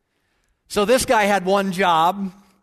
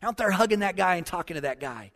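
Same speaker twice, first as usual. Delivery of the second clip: imitating an exasperated husband, pitch leaping on the question; frustrated husband. George questions his wife about the hug, mock frustration. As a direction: demand an explanation, voice jumping up. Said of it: "George looks at her kind of frustrated".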